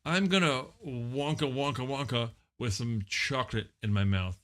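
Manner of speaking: low, loosely rambling guest character; a hint of an oddball movie star; lightly voiced celebrity guest.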